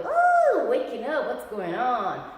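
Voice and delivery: high squeal, then slow and drowsy; sleepy muscles waking. Pretend. Voicing muscle fibers waking up.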